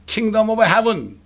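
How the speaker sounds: "Kingdom of Heaven" spelled out word by word, very slowly; slow deliberate English. Shown as a demonstration. Preacher teaching the congregation the English phrase, very slow. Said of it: "킹제임스 성경 외에는 Kingdom of Heaven 하고요".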